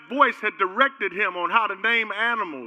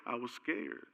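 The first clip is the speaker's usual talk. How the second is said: much softer, low sheepish admission; sheepish answer; 7 semitones lower, 15 dB quieter than usual. Retold or imitated. Person explaining their fear, soft sheepish mumble. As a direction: mumble it like a caught child.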